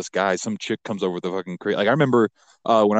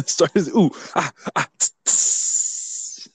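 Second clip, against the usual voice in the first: mouth burning; 7 semitones higher, much slower than usual. Real, not acted. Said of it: "Starting off a little hot".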